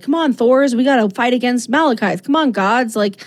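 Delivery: exasperated battle cry to the gods; urging the gods. Retold or imitated. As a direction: rouse the idle gods to fight. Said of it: "And she's like".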